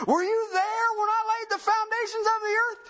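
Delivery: sustained high, sarcastic rhetorical question; God being sarcastic. Acted. Creator questioning Job about earth's foundations, loftily sarcastic. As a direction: demand it loftily, knowing the answer is no. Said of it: "that's sarcasm".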